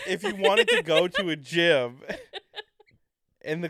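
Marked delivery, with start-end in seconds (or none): 0.1-2.1 words broken by laughter; giggling through it; laughing. Real, not acted.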